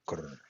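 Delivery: short soft rolled grr; mild dog growl. Shown as a demonstration. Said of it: "thinking how a dog growl".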